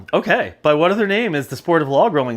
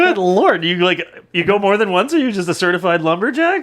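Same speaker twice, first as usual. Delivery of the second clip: raised-voice teasing disbelief; higher, worked-up incredulity; astonished; 3 semitones higher, 4 dB louder than usual. Real, not acted. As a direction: grill a friend in loud amazement. Amazed the friend knew the answer.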